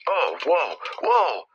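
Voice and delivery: sharp startled gasp of surprise; startled whoa. Real, not acted. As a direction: jump at a sudden sound. Sudden noise at the grave.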